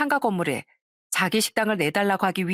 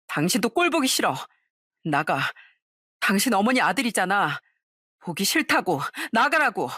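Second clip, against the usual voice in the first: angry shouting out. Retold or imitated. Wife ordering husband out.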